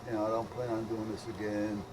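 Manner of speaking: normal talking voice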